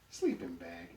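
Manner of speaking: very high, loud disbelief; incredulous exclamation. A narrator's reading. Donkey hearing of poor lodgings, incredulous and high. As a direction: yelp it back as a shocked question. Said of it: "exclaims Emmett".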